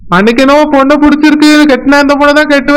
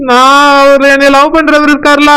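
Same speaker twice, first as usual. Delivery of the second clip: crying. Acted. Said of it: "நான் தான் அழுதுட்டு இருக்கேன்".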